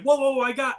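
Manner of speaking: hold-everything outburst; urgent interjection. Acted. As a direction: cut in urgently, acting it out. Wife cuts in, in joke.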